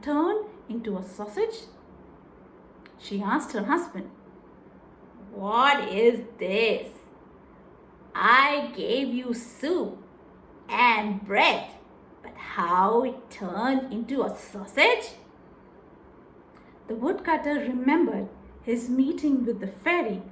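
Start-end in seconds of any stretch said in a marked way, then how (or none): 5.3-15.2 puzzled wife. Acted. Wife asking her husband how the soup became a sausage, slow and baffled. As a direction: drag out the confusion.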